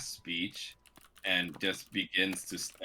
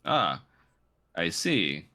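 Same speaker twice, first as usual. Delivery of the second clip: snide. Acted. Noble sneering.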